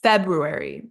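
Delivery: "February" with the weight on Feb; stress on first syllable. Shown as a demonstration. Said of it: "our stress is on the first syllable".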